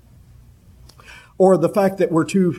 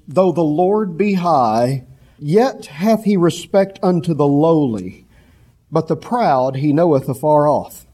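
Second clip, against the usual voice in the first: slow, measured reading of Scripture; King James verse read with weight; solemn scripture reading; 2 semitones lower than usual. Shown as a demonstration. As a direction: read it slowly, with reverence. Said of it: "Psalm one thirty-eight verse six says".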